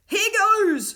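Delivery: loud, high burst of daring; cried out. A narrator's reading. Will charges round the corner, crying out loudly. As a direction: launch yourself into it. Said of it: "cried Will".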